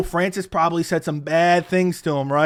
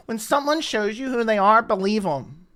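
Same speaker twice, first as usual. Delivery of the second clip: sneering mock quote. Vlogger mocking Dana's favorite quote, sneering. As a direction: repeat the line back with mocking scorn. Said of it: "why don't you put that quote up".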